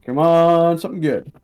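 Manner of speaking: urging the dice. Real, not acted. Hoping for a good damage roll.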